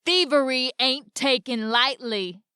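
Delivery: slow, loud roar of a northern brute. A narrator's reading. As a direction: bellow it slowly, threatening. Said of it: "roared the man".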